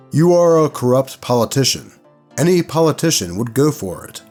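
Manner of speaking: lightly voiced insistent game master; pushy game master. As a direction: imitate a game master leaning on a player. Game master's quoted pressure, retold.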